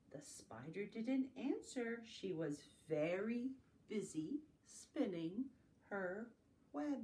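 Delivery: slow, drawn-out storybook refrain; lilting narration with suspenseful pauses; reading to children. A narrator's reading. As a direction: spin out the refrain word by word.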